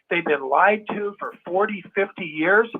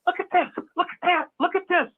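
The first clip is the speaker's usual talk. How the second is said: higher insistent calling out; calling voice of truth; 9 semitones higher than usual. Retold or imitated. The voice of truth calling people out of denial. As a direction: point and call out urgently. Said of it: "It's always saying".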